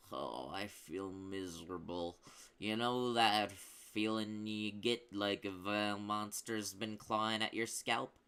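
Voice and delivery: slow, slurring wounded goblin; slurred. Acted. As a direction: slur the words, dazed and miserable. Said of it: "and slurred".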